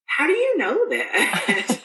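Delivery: high, slow, laughing question; laughing disbelief. Retold or imitated. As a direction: ask it half laughing, almost unbelieving. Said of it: "And I was just like".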